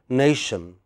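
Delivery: "nation" with NA stressed, falling away; first-syllable stress. Shown as a demonstration. Teacher asking class where stress is, first-syllable stress. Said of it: "first syllable".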